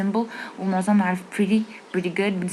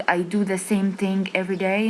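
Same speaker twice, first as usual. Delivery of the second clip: slow, clear English sentence; slow careful English; much slower than usual. Shown as a demonstration. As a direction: say it slowly, word by word. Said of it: "بدل ما أقول". (جملة إنجليزي ببطء)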